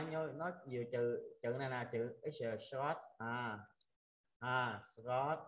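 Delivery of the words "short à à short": "short" drawn out sound by sound; slow reading. Shown as a demonstration. Teacher showing students the letter name, slow "short". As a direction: read "short" slowly for learners. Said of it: "nếu mà đọc chậm á".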